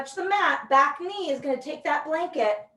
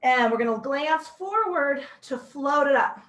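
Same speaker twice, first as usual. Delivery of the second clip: out of breath. Real, not acted. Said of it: "So I'm out of breath".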